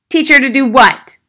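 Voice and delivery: loud, high-pitched challenge; incredulous father. Acted. Father baffled by teacher's question, incredulous. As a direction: throw the question back loudly.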